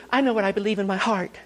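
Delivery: ape people trusting their own heart; mocking people. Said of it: "You hear people say".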